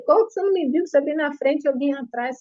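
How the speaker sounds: high, disbelieving retort; wife protesting husband's accusation, indignant. Retold or imitated. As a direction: push back hard against the lie. She protests his accusation.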